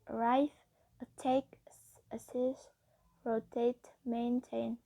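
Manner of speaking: a-RRIVE, a-TTACK, a-SSIST, ro-TATE, main-TAIN; final-syllable stress. Shown as a demonstration. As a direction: stress the last syllable of arrive, attack, assist, rotate, maintain. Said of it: "then that syllable is stressed".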